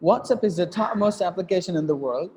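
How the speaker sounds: "WhatsApp is the topmost application in the world" in one breath, no pause; single phrase in one breath. Shown as a demonstration. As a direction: sweep through the group unbroken. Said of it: "I read it in one breath".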